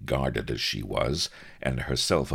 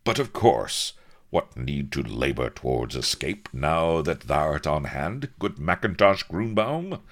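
lightly voiced old-fashioned buccaneer; a grandiloquent captain struck by an idea; inspired captain.

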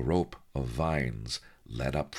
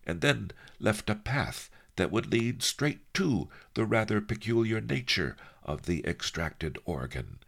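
higher-pitched voice of a scheming sage; Master Lee, musing; 7 semitones higher than usual. Acted. Master reasons out the labyrinth to his helper, musing. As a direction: think aloud in a high old master's voice.

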